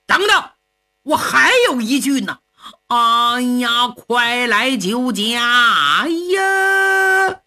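slow, stretched final cry for help; last desperate call. Acted. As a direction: drag out the plea, ending in a wail.

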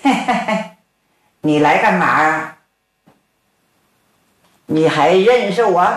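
a lightly voiced old man's knowing chuckle; chuckling old man. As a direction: chuckle it out as the white-bearded elder. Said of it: "白胡老头一笑". (老头儿轻笑着问话)

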